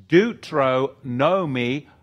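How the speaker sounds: "Deuteronomy" said slowly as deutro-NO-mee; broken-down pronunciation. Shown as a demonstration. Explaining the second law, "Deuteronomy" stretched as deutro-NO-mee. Breaks the name down by parts.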